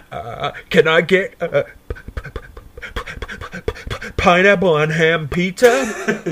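imitated stoned stammer; stuttering. Stoned caller ordering pizza by phone, stuttering badly. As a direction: trip over the P over and over before getting it out. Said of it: "I'm fucking stuttering away".

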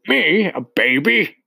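high, loud, outraged shout. A narrator's reading. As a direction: shout it back in disbelief. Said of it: "shouted the Trunchbull".

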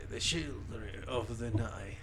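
slow, deep, quiet Transylvanian drawl; Dracula accent. Retold or imitated. Friend quotes Dracula's famous line, slow Dracula accent. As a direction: intone it like the old count. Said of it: "El, el acento".

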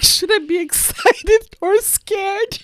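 high, slow, laughing worried voice; nervous husband. Retold or imitated. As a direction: ask it laughing and scared. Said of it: "he was looking at her like".

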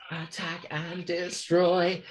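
very slow mechanical alien voice. Retold or imitated. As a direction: drag it out like a machine. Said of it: "different kind of alien-y voice".

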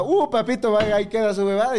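high, hammed-up dismissal; mock brush-off. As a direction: imitate someone airily bowing out. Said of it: "no es la que se va".

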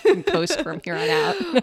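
high laughing line. Real, not acted. Co-host laughing as she finishes the joke.

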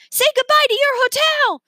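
high, loud witchy taunt; gloating. A narrator's reading. Villainess taunting the boys as she takes the hotel. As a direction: crow it up at them, triumphant. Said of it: "laughing up at the boys".

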